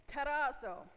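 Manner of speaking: a touch of Italian flair on "tarazo" and "troubled"; playful hint of an Italian accent. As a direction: lightly lilt "troubled" the Italian way. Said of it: "I said that with a little Italian flair".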